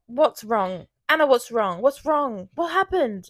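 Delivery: mock-panicked boyfriend; worried boyfriend. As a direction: imitate him calling out in alarm. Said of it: "And he's like".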